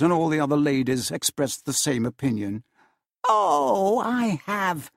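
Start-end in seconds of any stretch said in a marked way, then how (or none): 3.3-4.9 higher, light chuckling voice; amused nephew. A narrator's reading. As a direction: tease his uncle fondly. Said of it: "said Scrooge's nephew".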